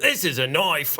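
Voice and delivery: Crocodile Dundee. Retold or imitated. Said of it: "I immediately go to Crocodile Dundee".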